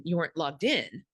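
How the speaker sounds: You weren't LOGGED IN, logged in leaned on; stress on logged in. Shown as a demonstration. Showing a manager the right take, stress on logged in. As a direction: put the weight on logged in. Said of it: "put the emphasis on logged in".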